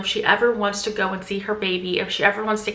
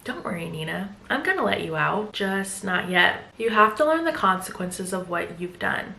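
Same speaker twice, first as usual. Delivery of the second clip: much softer, low, controlled; cold calm; 3 semitones lower, 5 dB quieter than usual. Retold or imitated. Husband coolly telling wife she must learn, soft and cold. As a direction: keep it quiet and chilling. Husband calmly refusing release.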